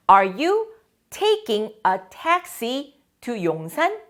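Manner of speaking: Are you taking the subway to school? said very slowly and clearly; slow, careful question for the class; slow model question. Shown as a demonstration. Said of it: "teacher models the question".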